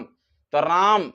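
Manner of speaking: राम held long and slow; elongated राम as a pluta vowel demo; drawn-out Ram. Shown as a demonstration. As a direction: stretch राम out like calling on a god. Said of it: "जैसे कि राम".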